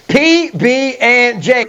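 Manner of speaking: P B and J drawn out slowly; slow call to repeat. Shown as a demonstration. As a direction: lead the group in saying P B and J slowly. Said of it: "say it with me".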